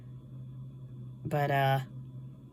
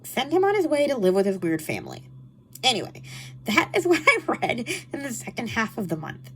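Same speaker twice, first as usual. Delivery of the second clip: nasal voice; 5 semitones higher than usual. Real, not acted. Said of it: "for my nasally voice".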